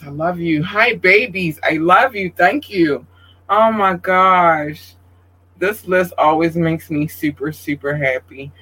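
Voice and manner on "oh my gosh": touched. Real, not acted. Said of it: "I would get emotional tonight too".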